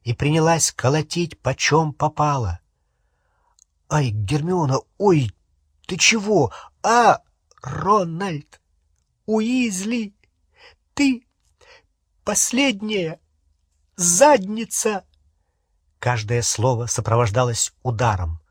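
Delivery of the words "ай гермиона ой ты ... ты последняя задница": high, shrieking outburst with every blow; raised-pitch tirade, last word slowed; furious. Acted. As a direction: lash out at him in a high furious voice. Hermione beating Ron, furious.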